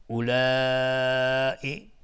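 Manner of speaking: اولائی with a very long aa in لا; obligatory madd. Shown as a demonstration. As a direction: hold the لا of اولائی steady, then cut to ئی. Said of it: "مد دوم".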